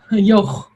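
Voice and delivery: yoh with a raspy throat sound at the end; throat-clearing sound. Shown as a demonstration. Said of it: "it makes it sound like this".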